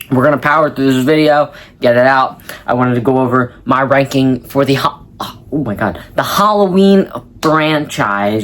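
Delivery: talking through hiccups; fighting hiccups mid-sentence. Real, not acted. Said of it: "I got the hiccups".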